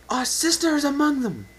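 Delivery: high, loud alarmed shout; a princess crying out over the din; urgent cry. Acted. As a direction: call it out as you spot her. Celestia crying out in battle.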